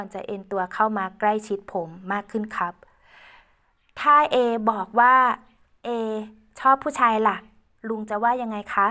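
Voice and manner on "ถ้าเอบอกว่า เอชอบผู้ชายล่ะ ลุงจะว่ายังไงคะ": slow, coy question as Ae. Acted. Ae flirting with uncle.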